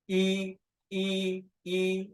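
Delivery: E said with the lips rounded. Shown as a demonstration. Teacher shows the rounded ü with her mouth for the class. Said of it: "You can see my mouth like this".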